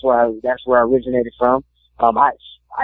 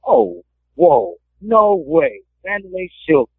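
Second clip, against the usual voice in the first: starstruck; 6 semitones higher, slower than usual. Retold or imitated. Starstruck meeting his idol.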